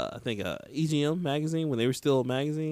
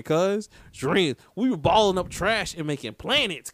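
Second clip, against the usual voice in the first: ordinary talk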